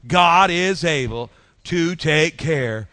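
slow, firm congregational declaration; slow, sturdy call to repeat; with strength. Shown as a demonstration. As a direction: declare it with strength, drawing out the words. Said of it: "say it with some strength".

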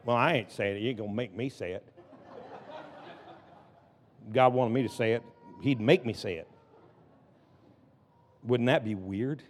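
low, soft and coy; playful hushed aside. Pretend. Preacher coyly refusing to say it, hushed aside. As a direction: drop right down, setting up a joke. Mock aside before acting God's shout.

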